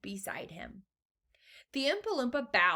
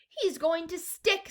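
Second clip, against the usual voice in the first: excited; 10 semitones higher, 3 dB louder, slower than usual. A narrator's reading. Boy watches Augustus slowing in pipe.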